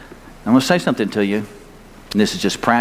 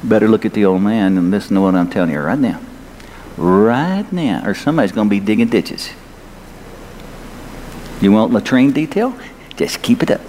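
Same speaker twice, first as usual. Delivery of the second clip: raised drill sergeant voice; 3 semitones lower than usual. Retold or imitated. Retold sergeant to his troops, mildly raised voice. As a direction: lean on the troops like the old man in charge. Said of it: "I'd raise my voice a bit and go".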